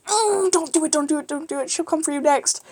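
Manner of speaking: high pleading voice, holding in laughter; high-pitched stifled-giggle plea; trying not to laugh. Retold or imitated. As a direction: imitate begging a friend to stop while stifling a laugh. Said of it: "trying not to laugh".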